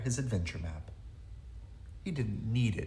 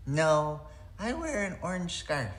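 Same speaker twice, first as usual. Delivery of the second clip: character voice; 6 semitones higher than usual. Acted. Penguin answers in character.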